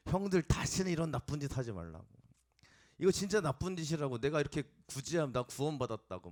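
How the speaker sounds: put-on excited little boy telling off his hyung; eager urging. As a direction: burst out warning them. Boy urging the older boys.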